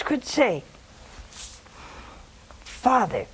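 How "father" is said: low, solemn prayer, fading softly; quiet, prayerful surrender; reverent prayer. Retold or imitated. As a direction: pause after the address, then sink into a hush. Models the prayer for listeners.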